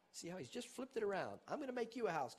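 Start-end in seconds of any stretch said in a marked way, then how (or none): 1.5-2.4 David's claim. Retold or imitated. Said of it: "David said".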